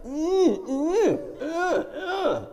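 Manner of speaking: high, strained mock grunts; effortful grunts. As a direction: imitate grunting with each hard press. Imitates the masseur's pressing.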